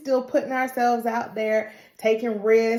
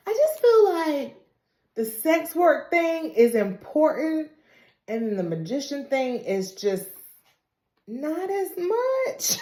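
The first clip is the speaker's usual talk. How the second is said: high imitating voice; 6 semitones higher than usual. Retelling Ava in high put-on voice.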